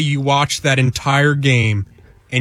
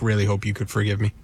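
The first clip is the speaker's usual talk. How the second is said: fast, soft sarcastic "really hope you could forgive me"; 6 semitones lower, 6 dB quieter, much faster than usual. Retold or imitated. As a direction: toss off the apology insincerely, quickly.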